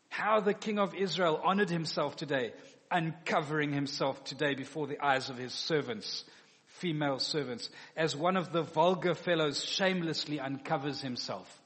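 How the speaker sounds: offended scornful mockery; a wife's scornful rebuke to her husband the king; sarcastic. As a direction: read her scornful rebuke through to the end. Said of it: "She is offended".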